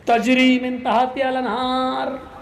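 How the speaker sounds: slow, drawn-out chanted Arabic; mock Quran recitation. Cleric reciting a verse to justify grabbing the ghee, slow chant. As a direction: intone it like a cleric reciting scripture.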